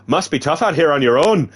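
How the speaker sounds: lilting faked Irish woman; lightly attempted Irish accent; put-on Irish accent. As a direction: try an Irish lilt. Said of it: "she's Irish again now".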